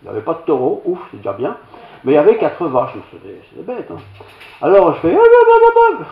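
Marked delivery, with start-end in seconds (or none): 5.1-6.1 high, loud hop hop call; high ringing calls to a herd of cows. Retold or imitated. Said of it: "Je dis n'importe quoi".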